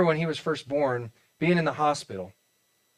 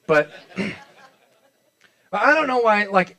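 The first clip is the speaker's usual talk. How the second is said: laughing; 5 semitones higher, 6 dB louder, much slower than usual. Real, not acted. Laughs at his own joke.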